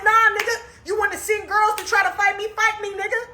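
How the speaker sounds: high, heated dare to fight; angry challenge. Retold or imitated. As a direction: get in his face and dare him. Retold confrontation with Tim.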